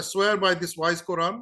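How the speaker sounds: slow solemn oath. Retold or imitated. Quoting the oath twice.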